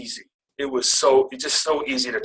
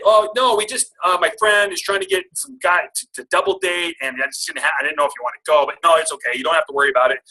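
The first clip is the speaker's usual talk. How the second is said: flustered backpedal; 4 semitones higher than usual. Retold or imitated.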